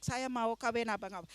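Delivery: Saya mau kawin abang awak run together fast and soft; rattled off. Shown as a demonstration. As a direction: rush the phrase once learnt. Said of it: "I learn it".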